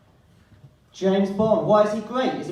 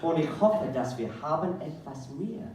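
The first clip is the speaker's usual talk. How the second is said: reading his text message; 4 dB quieter than usual. Acted. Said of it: "here is my S M S".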